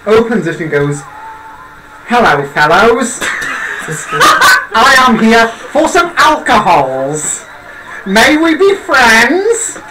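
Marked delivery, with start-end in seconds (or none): 2.1-9.8 slow, overly formal greeting with high rises; stilted formal stranger. Acted. Necromancer greeting the tavern regulars, stiff and slow. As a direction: greet the bar like someone who learned manners from a book.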